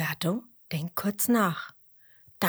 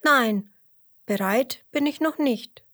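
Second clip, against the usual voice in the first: sheep voice; 7 semitones higher, 4 dB louder than usual. Acted. Emmerla voiced higher.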